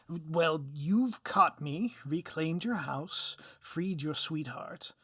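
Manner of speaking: lightly voiced villain, slow and wheedling; a hint of a cornered villain pleading. Cornered villain appeals to the hero's better nature, slow and wheedling.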